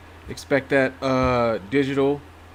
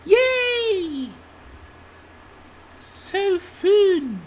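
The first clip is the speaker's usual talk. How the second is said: excited cheer; 3 dB louder, much slower than usual. Real, not acted. Cheering on stream.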